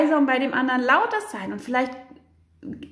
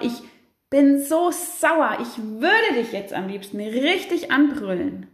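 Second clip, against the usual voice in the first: drawn-out, louder declaration of anger; loud and slow; slower than usual. Shown as a demonstration. Parent venting into the room, not at the child, loud. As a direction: say it out loud, stretching "so sauer". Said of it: "du sagst vielleicht auch ganz laut".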